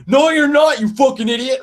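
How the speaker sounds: high, loud imitation of a furious boss; high-pitched mock yell of an insult; retold angry yelling. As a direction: act out him yelling at you. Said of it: "he's yelling at me".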